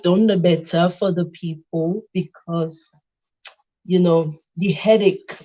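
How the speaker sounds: put-on Yoruba accent. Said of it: "my Yoruba accent go, I go form".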